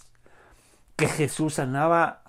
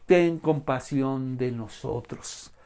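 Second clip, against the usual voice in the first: crying out louder; slower than usual. Acted. Blind men calling to Jesus over the crowd, crying out. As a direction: cry out, then draw out the plea. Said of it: "gritaban aún más fuerte".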